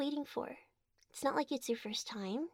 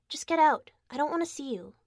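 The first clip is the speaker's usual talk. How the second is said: angry shouting; 2 semitones higher, 6 dB louder than usual. Acted. Angry partner throwing him out.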